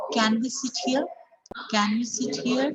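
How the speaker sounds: no force on "can", rising on "here"; unstressed CAN. Shown as a demonstration. Teacher models the question for learners, CAN unstressed. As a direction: keep "can" weak and lift "here". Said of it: "put force".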